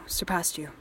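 whisper. Acted. Captor whispering.

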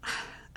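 quiet, breathy exhale; hushed, heavy-hearted sigh; soft sigh. Acted. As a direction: sigh gently before speaking. Sighs before serious reassurance.

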